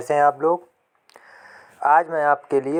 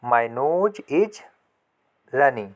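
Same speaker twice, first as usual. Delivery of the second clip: slow repeat; much slower than usual. Shown as a demonstration. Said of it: "इसको कैसे पढ़ेंगे, बोलेंगे".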